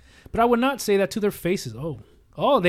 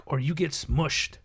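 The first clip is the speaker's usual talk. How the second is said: slow giant threat; slower than usual. Acted. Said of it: "a huge voice bellows down".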